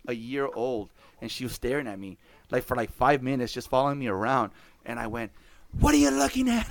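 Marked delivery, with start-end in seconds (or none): 5.8-6.7 high, loud mock challenge; mock snap. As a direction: bark it at the staring toddler, half joking. Snapping at a toddler.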